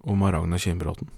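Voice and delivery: measured, deliberate storytelling; story narration. A narrator's reading. Podcast host introduces the general to listeners, measured storytelling. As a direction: tell it as a solemn tall tale. Reads out a comic tall tale.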